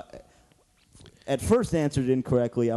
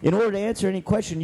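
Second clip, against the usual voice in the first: fast restart; 5 semitones higher, faster than usual. Shown as a demonstration. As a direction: hurry through the line again. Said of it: "repeats the rules".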